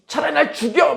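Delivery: high shouted mock tantrum; angry outburst. Jonah shouting at God in a mock tantrum. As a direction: throw the line out in a fit. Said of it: "이".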